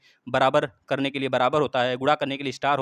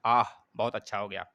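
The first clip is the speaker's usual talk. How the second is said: joy; 5 semitones lower than usual. Shown as a demonstration. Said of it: "खुशियाँ व्यक्त करना".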